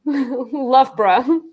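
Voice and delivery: Loughborough squeezed to LUFF-bruh; clipped British Loughborough. Shown as a demonstration. Laughing over odd place names, Loughborough said LUFF-bruh. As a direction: say Loughborough with the ending swallowed. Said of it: "it's like a whole word".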